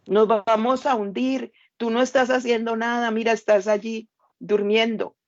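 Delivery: frightened men waking their master; panicked disciples. Acted. Disciples in the sinking boat rebuking Jesus, panicked.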